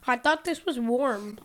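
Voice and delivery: eating ice. Real, not acted. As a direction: mouth full of ice. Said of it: "You're eating ice".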